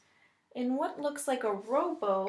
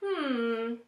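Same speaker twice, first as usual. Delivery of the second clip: announcing. Acted. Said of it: "he announces".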